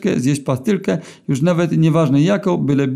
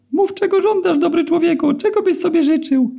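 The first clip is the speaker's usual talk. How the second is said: very high, thin and squeaky, slowed down; squeaky eel begging for mercy. A narrator's reading. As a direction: plead in a tiny squeaky eel voice. Eel offering wishes.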